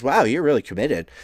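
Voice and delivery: high, loud admiring wow; acted amazed praise; impressed. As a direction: marvel at the effort. Gremlin impressed by the effort.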